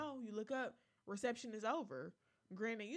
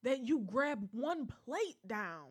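louder, slowed irritated complaint; 6 dB louder than usual. Real, not acted. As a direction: let the irritation rise. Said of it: "The, the voice went up".

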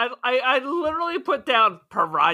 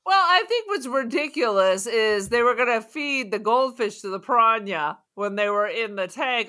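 normal talking voice

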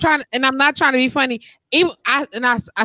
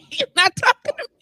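high, put-on innocent voice; brushing him off, high and feigning innocence; mock innocent; 10 semitones higher than usual. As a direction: act like you have no idea. Playing innocent to the man.

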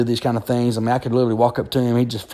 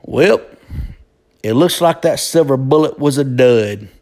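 gloating taunt. Retold or imitated. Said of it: "looked over at Jeff McFry and goes".

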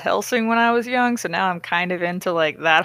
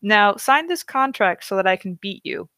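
higher, mock-tender reassurance; mock sweet talk; 4 semitones higher than usual. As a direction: lay the flattery on thick. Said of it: "assures her that".

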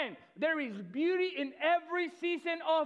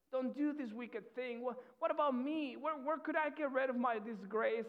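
mild pleading. Retold or imitated. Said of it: "she says".

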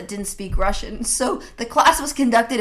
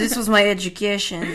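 put-on Russian accent; faster than usual. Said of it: "only in a Russian accent".

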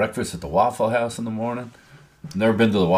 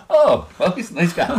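higher-pitched, laughing through the quote; laughing retold reply; 9 semitones higher than usual. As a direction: act out your own clueless answer while laughing. His oblivious reply, retold amid laughter.

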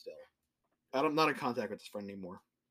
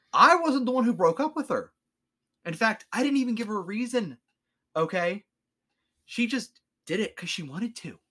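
retold rant; 5 semitones higher than usual. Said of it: "And I'm like".

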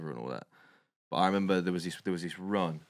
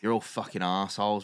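retold angry rant; 3 semitones higher, 6 dB louder than usual. Angry date ranting at the man who wants nothing serious: mock furious. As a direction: play her going off at him, half-hammed. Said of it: "started going off on him".

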